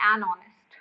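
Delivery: an honest said slowly, linking an to honest; slow, clear model. Shown as a demonstration. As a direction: spell out an honest for the class. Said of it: "आप क्या करोगे". (an honest धीरे और साफ़ बोलिए)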